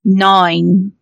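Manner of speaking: reading a digit like the phone robot. Shown as a demonstration. Demonstrating for co-hosts how they talk to the bill line, robot voice. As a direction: drop the accent, imitate an automated line. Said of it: "I code switch to sound like the robot".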